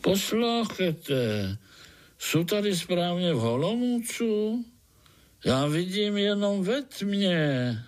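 high, slow, kindly mole voice calling out; a friendly mole calling up from below, drawn out; good-natured call. Acted. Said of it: "volalo to dobrácky".

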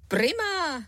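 high, eager little yes; a quick happy nod in the voice; eager boy. A narrator's reading. Son answering father, eager and high. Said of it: "přikývl chlapec".

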